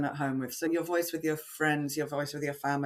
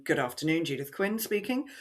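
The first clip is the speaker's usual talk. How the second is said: phone voice. Retold or imitated. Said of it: "you're picking up the phone".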